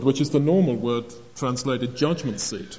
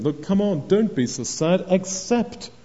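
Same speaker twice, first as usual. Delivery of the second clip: raised, urging pep talk; encouraging; 5 semitones higher than usual. Retold or imitated. Ezra to the downcast people, encouraging. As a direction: urge them on, rising higher on the last word. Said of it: "Ezra encourages them".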